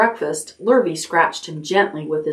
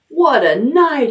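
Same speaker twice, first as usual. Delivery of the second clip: hoarse; 9 semitones higher, 4 dB louder, slower than usual. A narrator's reading. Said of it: "he repeated hoarsely".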